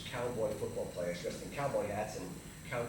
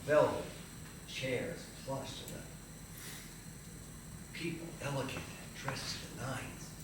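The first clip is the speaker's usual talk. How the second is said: hushed awe; 7 dB quieter, slower than usual. Retold or imitated. Recalling awe inside the theater.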